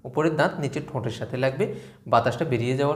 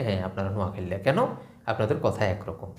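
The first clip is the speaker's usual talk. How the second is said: imitating outsider; 5 semitones lower, 5 dB quieter than usual. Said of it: "উনি দুজনকেই বলবে".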